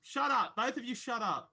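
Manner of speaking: sharp, high shut up; heated shouting. Real, not acted. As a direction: snap at them to stop arguing. Players bickering over game.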